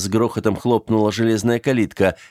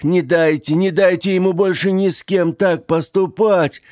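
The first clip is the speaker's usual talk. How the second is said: high, loud, urgent pleading; frantic plea; 8 semitones higher, 3 dB louder than usual. Acted. The dying old man begs the graves, high and urgent. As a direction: beg the dead to punish him.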